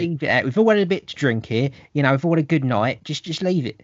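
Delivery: hammed-up bloke in a pub scrap saying leave it; mock lad begging his pal to drop it; mate holding back a friend. Acted pub mates holding back.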